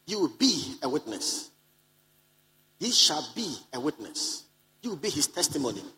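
slow, each word weighted, on be; slow and emphatic. Shown as a demonstration. Preacher slows to stress becoming a witness, slow and weighty. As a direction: slowly drive home be a witness. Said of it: "the emphasis of Jesus is that you".

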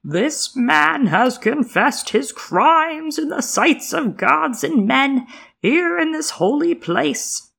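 slow, booming high priest intoning; deep swelling intoning. Acted. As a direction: intone it like a sermon from the steps. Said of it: "he intoned in a deep, swelling voice".

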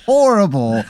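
slow, drawn-out horrible horrible; real amused disgust, slowed down; disgusted disbelief. Real, not acted. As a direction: savour how awful it is, slowly. Reacting to silly horse name.

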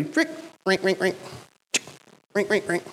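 imitated shoe squeaks in short bursts; mimicked squeaking footsteps; squeaky shoes. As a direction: squeak out each shuffling step. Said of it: "with squeaky shoes".

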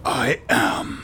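superhero voice. Acted. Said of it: "That's my superhero voice".

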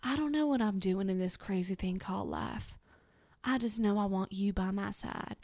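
lightly put-on Southern US rom-com lead accent; hammy romantic line in a loose Southern accent; mock rom-com hero, rough Southern accent; Matthew McConaughey. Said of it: "sounds like something he would say in a rom-com".

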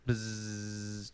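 soft, low buzzing hum; bee buzz. Shown as a demonstration. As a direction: buzz quietly like a lazy bee. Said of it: "just go, like".

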